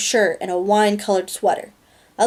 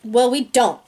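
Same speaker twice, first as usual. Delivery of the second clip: snapped; 3 semitones higher than usual. Acted. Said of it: "I snapped".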